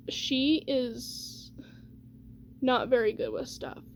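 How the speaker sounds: whispered aside. Real, not acted. Telling viewers about mom, hushed whisper. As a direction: drop to a whisper for the secret. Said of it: "whispers an unkind remark".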